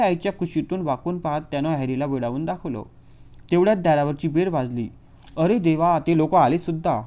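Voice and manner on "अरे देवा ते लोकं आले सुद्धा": louder, startled exclamation; flustered. Acted. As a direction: caught off guard, in a fluster. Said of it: "गडबडून". (गडबडलेली, मोठ्याने उद्गारलेली)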